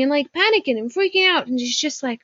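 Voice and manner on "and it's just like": whisper. Retold or imitated. Panicking, freaking out.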